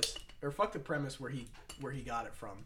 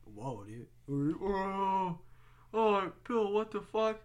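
shocked crowd; 5 semitones higher, much slower than usual. Retold or imitated. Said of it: "the whole crowd's like".

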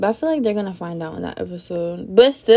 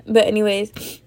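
talking with a blocked nose; blocked-nose speech; stuffy nose; 5 dB louder than usual. Real, not acted. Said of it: "my nose was, um, stuffed".

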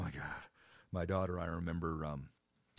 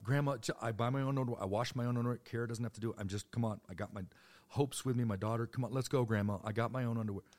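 protesting grandson; 4 semitones higher, 4 dB louder than usual. Retold or imitated.

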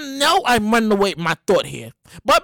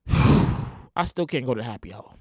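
mock whine; 13 semitones lower, 6 dB quieter, slower than usual. Sighing complaint.

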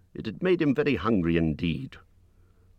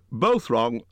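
higher-pitched triumphant call; relieved cry; 5 semitones higher, 4 dB louder than usual. A narrator's reading. Bilbo answering Gollum's last guesses, relieved cry. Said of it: "cried Bilbo, very much relieved".

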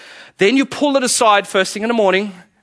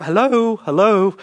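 sing-song mock greeting; mock taunting soul; 3 semitones higher, slower than usual. The soul greeting you on waking, mock teasing. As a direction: tease it like a nagging inner voice. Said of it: "Your soul has this wonderful way of reminding you".

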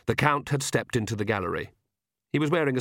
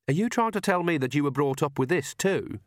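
a heated, incredulous challenge; hotly; 5 semitones higher than usual. Acted. Agnes confronting Vlad about his upbringing, hot and indignant. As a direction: push back at him with heat. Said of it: "she said hotly".

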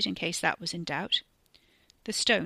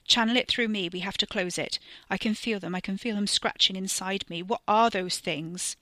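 terrified plea. Acted. Carrie terrified, monsters inside.

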